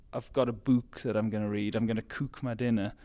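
"book" and "cook" with a long Geordie oo; Newcastle vowels. Shown as a demonstration. Runner showing Newcastle speech, long oo in "book" and "cook". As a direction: stretch "book" to "boook" and "cook" to "coook". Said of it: "in Newcastle, we'll say".

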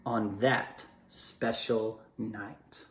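slow storybook reading, winding down; story narration. A narrator's reading. Dad finishing the book to his children, slow and tender. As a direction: let the last lines slow and settle. Reads rhymed story ending.

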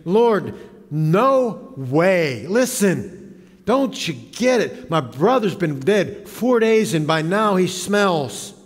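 slow, drawn-out mock protest; acted, emphatic objection. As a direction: object in disbelief, stretching the opening words. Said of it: "Martha quickly protests".

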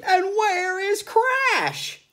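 loud, slow, commanding; stern conductor. A narrator's reading. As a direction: call the roll impatiently.

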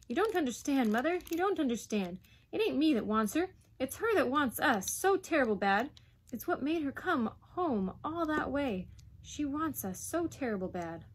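put-on high, impatient boyish protest; rising clear. Boy protests that Lassie wants them, voice rising. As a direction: insist urgently, easing at the end. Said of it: "his voice rising clear".

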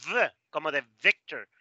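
"v" buzzed alone, then echoed at the start of "Victor"; English V sound. Shown as a demonstration. Teacher giving example words, English V. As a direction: buzz the "v" with teeth on lip. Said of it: "el sonido v".

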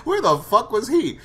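high, loud laughing question. Real, not acted. Recapper wonders where Axel was, laughing. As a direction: ask it through real laughter.

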